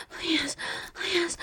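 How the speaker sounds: soft breathy whisper. Acted. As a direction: whisper it close to the ear. Whispered begging.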